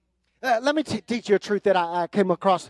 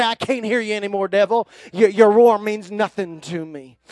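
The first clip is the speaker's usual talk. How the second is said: defiant dismissal; 4 dB louder than usual. Pretend. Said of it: "stick your fingers in your ears and say".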